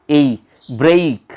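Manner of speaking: ए ई glided slowly from "e" into "i"; diphthong demo. Shown as a demonstration. Teacher to students, sounding out the diphthong slowly. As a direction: slowly slide ए into ई as one diphthong. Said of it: "ये diphthong है".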